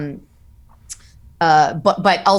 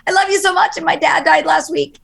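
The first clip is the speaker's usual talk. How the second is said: imitating a fan; 9 semitones higher, 3 dB louder than usual. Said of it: "And they're like".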